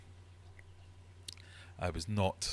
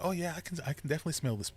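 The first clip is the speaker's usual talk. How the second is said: mocking agreement; 9 semitones higher, much faster than usual. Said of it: "and they're all going".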